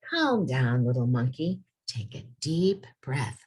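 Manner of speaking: gentle, reassuring read-aloud; soothing storybook voice. A narrator's reading. Teacher soothing the sad monkey in the story, gentle.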